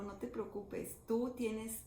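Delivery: soft, understated comforting quote; gentle reassurance, retold. The Lord reassures the doubting missionary about Japan, softly and tenderly. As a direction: quietly pass on words meant to calm doubts.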